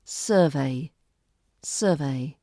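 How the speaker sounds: "Survey" ending in a clear vay sound. Shown as a demonstration. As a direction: land on vay. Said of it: "a they sound rather than the V".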